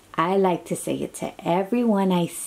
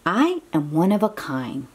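put-on reading to children. Reading picture book to child.

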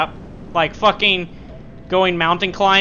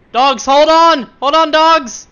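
calling out to dogs; 8 semitones higher, 6 dB louder, slower than usual. Pretend.

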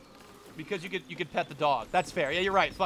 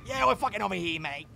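mock Aussie accent, slightly raised. Streamer mimicking an Aussie-sounding game character, Australian accent. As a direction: put on a broad Australian accent. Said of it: "She sounds kinda Aussie".

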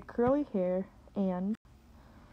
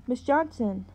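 loud, high sharp call; sharply; 4 semitones higher, 4 dB louder than usual. Acted. Pastor's wife cuts into the scolding, sharply. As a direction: cut her off with authority. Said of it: "a familiar voice said sharply".

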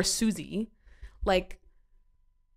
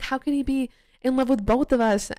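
mock tearful wail; 6 semitones higher, 4 dB louder than usual. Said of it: "crying and sobbing".

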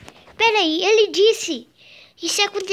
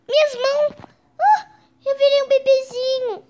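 shocked discovery; 6 semitones higher, 5 dB louder than usual. Acted. Realizes he became a baby.

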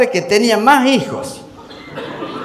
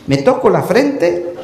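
complaining patient; 4 semitones lower, 3 dB quieter than usual. Acted.

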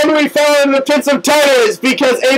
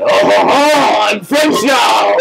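mock French accent; 4 semitones lower, slower than usual. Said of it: "he has a French accent".

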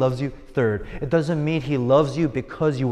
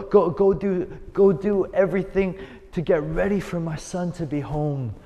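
overjoyed father; 3 semitones higher than usual. Acted. Joyful father welcoming son home.

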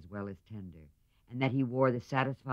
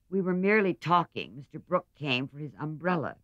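flustered; 6 semitones higher, 5 dB louder than usual. A narrator's reading. Meg evasive, flustered.

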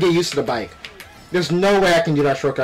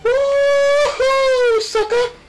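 gloating whoop; much slower than usual. Real, not acted. Overtaking rival in race.

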